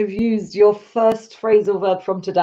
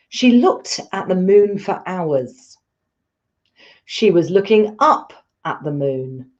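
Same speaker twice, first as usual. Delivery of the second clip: read aloud for repeating. Shown as a demonstration. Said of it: "I'll read them out loud to you".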